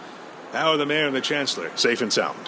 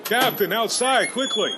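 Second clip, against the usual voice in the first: urgent alarm; 8 semitones higher than usual. Acted. Officer spots flock outside.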